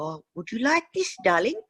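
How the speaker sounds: high, sweet shopkeeper voice; old furrier. Retold or imitated. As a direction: coo it like a doting old furrier. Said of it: "And they'd go".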